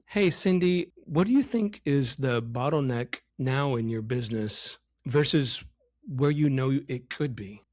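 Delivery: bland question with no emotion in it; too soft, boring. Shown as a demonstration. Coach showing how not to ask Cindy, boring delivery. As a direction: ask it without any feeling, as a bad example. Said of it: "It's too soft. It's too boring".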